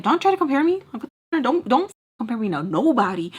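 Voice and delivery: loud, high, insistent objection; indignant retort. Retold or imitated. Girlfriend telling boyfriend not to compare her, loud and indignant. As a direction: push back hard at being compared.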